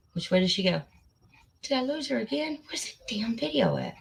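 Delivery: whispered frustrated mutter; whispering. Real, not acted. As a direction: mutter to yourself under breath. Muttering to herself searching.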